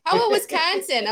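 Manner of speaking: imitating a nosy customer; mock customer. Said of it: "customers at work are like".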